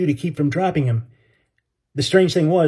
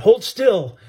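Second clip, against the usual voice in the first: strained yell; 7 semitones higher than usual. Acted. Straining boy yells at brother.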